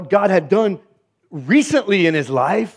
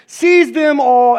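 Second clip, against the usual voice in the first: slow, higher commanding order; 8 semitones higher, 4 dB louder, much slower than usual. Acted. Elijah commanding the people, slow higher order. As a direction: give the order with authority. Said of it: "he commanded".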